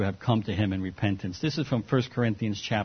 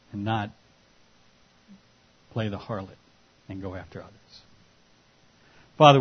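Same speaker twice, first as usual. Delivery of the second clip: closing prayer. Acted. Pastor leads closing prayer.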